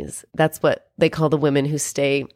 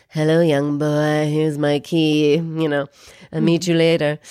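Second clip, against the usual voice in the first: cougarish. Retold or imitated. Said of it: "dripping with".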